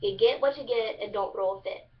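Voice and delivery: Eastern Kentucky "get" said as "git"; Kentucky twang, rhyme "get" with "fit"; Eastern Kentucky dialect. Shown as a demonstration. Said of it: "Eastern Kentucky dialect form".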